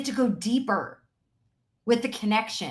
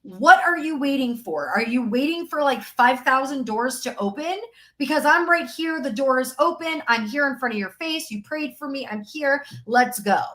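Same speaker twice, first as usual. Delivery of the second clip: 1 mock sales pitch. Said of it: "It's like".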